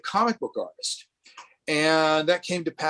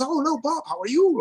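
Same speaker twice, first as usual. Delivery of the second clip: much higher, bright mock delight at meeting; imitating a cheery greeting; 12 semitones higher than usual. Publisher greeting Bob at the book expo, high mock delight. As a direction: play the delighted publisher, pitch way up. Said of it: "he goes".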